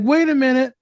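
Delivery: high, loud, slowed dawning panic; startled realization. Retold or imitated. Client realizing what she just said, high and alarmed. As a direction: freeze and catch the slip. Client catching their own slip.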